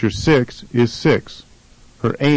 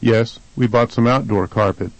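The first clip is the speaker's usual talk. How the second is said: "outdoor" stressed on OUT; first-syllable stress. Shown as a demonstration. Answering the carpet question, stress on OUT in "outdoor". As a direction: shift the weight forward to OUT in "outdoor". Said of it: "the first syllable is stressed".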